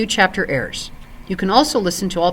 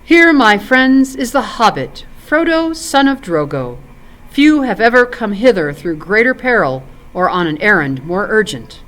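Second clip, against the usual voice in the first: Elrond presenting. Acted. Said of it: "Elrond ... presented him to the company, saying".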